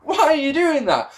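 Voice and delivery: mock despair through laughter; laughing disbelief. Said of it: "you're just going".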